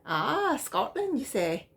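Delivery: a failed attempt at a Scottish accent; mock Scottish accent on a cookie tin; bad Scottish accent. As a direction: try a Scottish accent and miss. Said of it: "that just sounded really bad".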